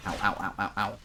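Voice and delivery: mock British accent on repeated noises; bad British accent. Shown as a demonstration. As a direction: parody the vowels of a British accent. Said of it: "Again, my British accent is".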